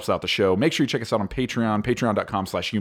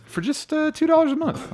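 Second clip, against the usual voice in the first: mock salesman pitch. Patreon plug, pitch jump.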